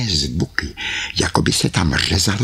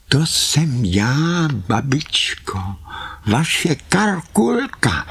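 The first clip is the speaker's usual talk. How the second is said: Karkulka calling out; 9 semitones higher, slower than usual. Acted. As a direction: call through the door, bright and high.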